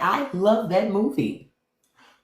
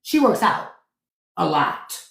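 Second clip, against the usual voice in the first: imitating Wesley Snipes' drag queen. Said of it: "Wesley Snipes was like".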